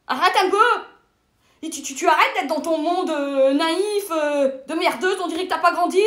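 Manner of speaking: un peu plus fort et plus haut, agacée. Acted. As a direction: engueule gentiment une copine naïve. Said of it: "Pourquoi tu t'énerves?". (ton agacé, on gronde une amie)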